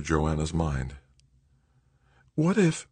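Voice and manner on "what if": tentative, high and left hanging; hesitant. A narrator's reading. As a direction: float an idea you are still forming. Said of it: "she hesitated, searching for an answer".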